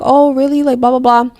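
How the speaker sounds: light retold "oh, really?"; mock surprise. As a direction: act out his friendly surprise. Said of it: "He's like".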